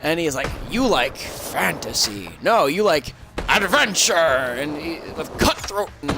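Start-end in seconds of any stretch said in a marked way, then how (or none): 0.7-4.1 put-on ominous old man. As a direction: draw it out like a mysterious old librarian. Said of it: "he starts putting on this ominous voice".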